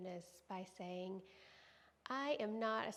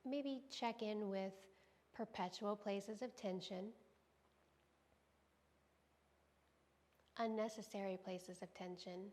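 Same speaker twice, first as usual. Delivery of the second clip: calm meditation guidance, spaced out with long pauses; guided body scan. Real, not acted. Yoga teacher guiding students to scan for tension, calm meditative voice. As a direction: invite them gently to notice, leaving silence between phrases.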